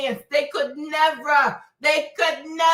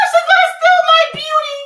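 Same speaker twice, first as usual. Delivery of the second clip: very high loud shriek; horror-film shriek; mock terror scream; 13 semitones higher, 9 dB louder than usual.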